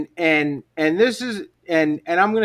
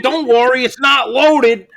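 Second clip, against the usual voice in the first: higher, louder mock calm of a gunman; mock reassurance; 6 semitones higher, 7 dB louder than usual. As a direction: falsely soothe them while waving a gun. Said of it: "If I'm waving a gun around and I'm saying".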